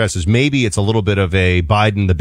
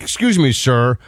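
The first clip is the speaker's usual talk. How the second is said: prissy cider order; 3 semitones higher, much slower than usual. Retold or imitated. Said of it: "and he's like".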